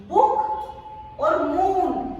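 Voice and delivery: very slow बुक और मून, short u then long oo; short versus long vowel. Shown as a demonstration. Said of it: "छोटा और बड़ा". (बुक में छोटा उ, मून में लंबा ऊ)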